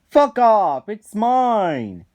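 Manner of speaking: loud high yell, snapping at him; angry shout. Retold or imitated. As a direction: bark it like a greedy kid guarding his toy. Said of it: "And he's like".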